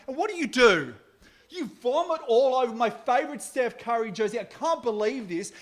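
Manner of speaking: high, loud angry dad yelling; angry rant. Retold or imitated. Dad yelling at daughter over vomited jersey, angry. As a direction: explode at the daughter in fury. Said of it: "I was so angry".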